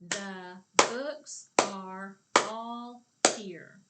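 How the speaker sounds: each word called loud and slow; slow loud clapping chant. Shown as a demonstration. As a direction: clap out every word loudly. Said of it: "Say it with me and let's clap it".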